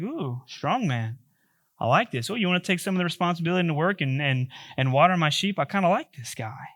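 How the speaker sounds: a lightly voiced smitten young woman; swooning girl. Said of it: "And she's probably like".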